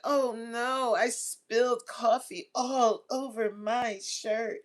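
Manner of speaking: slow, lightly voiced coy coworker; fake clumsy flirt. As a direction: play innocent about the spill, drawn out. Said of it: "one day she's gonna be like".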